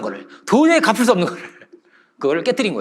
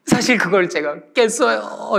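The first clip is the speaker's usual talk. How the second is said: slow, drawn-out mock-sobbing confession; acted weepy admission; tearful confession; 3 semitones higher, much slower than usual. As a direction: blurt it out in an imitated wail. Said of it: "이러면서 막 엉엉 울었어요".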